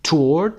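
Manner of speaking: "Toward" with the weight on "To", lifting up at the end; stress on first syllable. Shown as a demonstration. Teacher models for students, "Toward" stressed on its first part. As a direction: lean on "To" in "Toward". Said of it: "استرسش هم قسمت اول".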